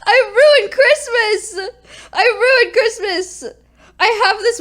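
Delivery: slow, high, loud hammed-up wail; mock wailing. Lamenting to chat that she ruined Christmas, mock sobbing. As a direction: wail it like a melodramatic sob.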